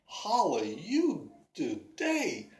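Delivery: Davy chatting up the pretty lady, low and smooth; smooth-talking flirt. Acted. Davy smooth-talks a passing woman.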